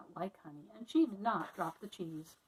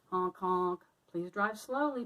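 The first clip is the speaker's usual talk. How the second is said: begging; 3 dB louder, slower than usual. Acted. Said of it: "begged Annie".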